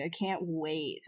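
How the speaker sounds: slow, dry sarcastic drawl. Real, not acted. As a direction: say it like you dread it. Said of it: "That was sarcasm".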